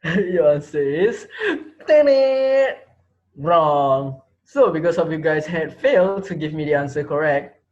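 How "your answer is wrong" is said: creepy laugh. Acted. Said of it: "smiled with a creepy smile".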